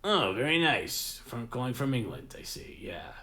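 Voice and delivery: drawn-out "oh", playing the fooled listener; Perry. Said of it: "He'll be like".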